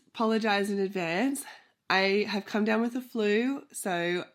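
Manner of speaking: stuffy nasal voice from a flu. Real, not acted. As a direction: speak through a blocked nose. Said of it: "I sound super nasally".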